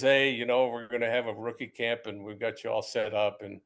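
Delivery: low, even recruiter's spiel; imitated official running through routine details; Gil Brandt. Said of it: "it was a whole spiel".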